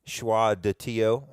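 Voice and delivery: Choix de Tio said slowly, carefully in French; tentative French. Shown as a demonstration. Host tries the film title in French, slow and careful. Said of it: "I guess is how you say it".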